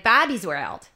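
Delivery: slow, drawn-out Minnesotan vowels; Minnesotan accent. Shown as a demonstration. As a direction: stretch it in a put-on Minnesota accent. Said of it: "there's always a word that gets you there".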